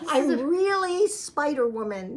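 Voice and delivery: slow, laughing mock claim; playful joking brag; laughing boast. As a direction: announce it grandly through a laugh.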